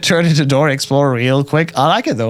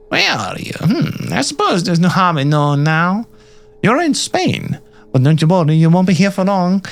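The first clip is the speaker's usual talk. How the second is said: a hint of a put-on captor, higher in places; lightly voiced captor; 5 semitones higher than usual. Captor telling a prisoner where they are, lightly voiced. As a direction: lightly play the captor answering.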